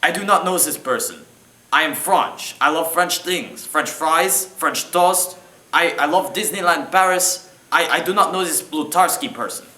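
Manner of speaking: hammed-up fake French accent; bad French accent. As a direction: play a terrible French accent. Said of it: "He has the worst French accent I've ever heard".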